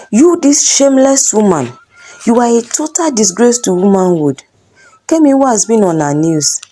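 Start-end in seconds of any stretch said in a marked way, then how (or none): 0.1-4.4 indignant husband, pitched up on shameless; angry shouting. Acted. Husband insulting wife in the compound, shouting. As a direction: hurl the insult at her. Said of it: "Jaye kept shouting at Kemi".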